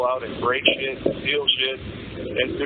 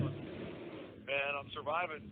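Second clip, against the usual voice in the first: talking through a prison phone receiver; prison phone call. Real, not acted. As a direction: voice over a jail payphone line. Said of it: "This is a prepaid collect call".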